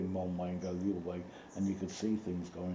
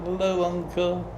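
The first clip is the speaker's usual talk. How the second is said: imitating child Charles; 10 semitones higher, 7 dB louder, slower than usual. Retells young Charles greeting uncle.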